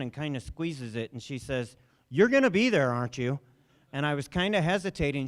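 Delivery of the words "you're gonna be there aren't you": anxious pleading. Retold or imitated. She grabs his hand, upset.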